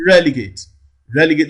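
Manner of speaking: relegate with REL punched loud; stress on first syllable. Shown as a demonstration. Teacher applies the counting rule, relegate stressed on REL. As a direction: hit the first syllable of relegate, third from the right. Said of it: "why the primary stress falls here".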